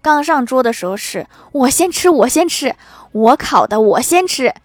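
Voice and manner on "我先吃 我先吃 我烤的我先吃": loud, insistent mock scramble; acted greedy diner, raised voice; eager clamouring. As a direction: clamour to be first, loud and punchy. Acting eager diners grabbing food.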